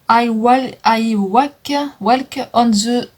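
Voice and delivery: slow, stumbling French-accented English, restarting the first word; halting French-accented English. Real, not acted. French vlogger struggles to read an English palette name, slow and halting. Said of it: "Désolée pour mon anglais qui est complètement pourri".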